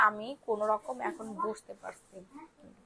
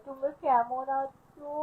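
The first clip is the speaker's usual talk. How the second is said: put-on very slow, a touch higher baby voice; voicing the cat; 4 semitones higher, 5 dB louder, much slower than usual. Owner voices her cat greeting the aunties, slow cutesy. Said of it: "বলো".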